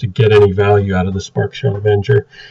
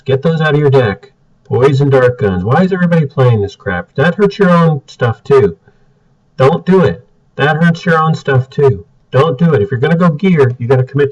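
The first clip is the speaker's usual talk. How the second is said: higher, louder, fed-up scolding; exasperated rant; 5 semitones higher, 3 dB louder than usual. Real, not acted. Reviewer scolding players over junk cards, exasperated and louder. Ranting at bad deck choices.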